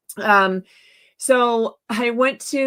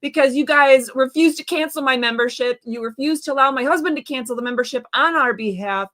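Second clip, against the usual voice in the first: heated, raised tirade at the staff; angry rant; 2 semitones higher than usual. Retold or imitated. Telling off the Costco guard, angry and raised. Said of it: "I'm getting angry".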